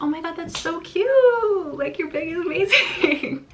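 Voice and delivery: high, slow gushing squeal; bubbly sorority girl. Retold or imitated. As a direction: gush over her like an excited sister. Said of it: "I was just like".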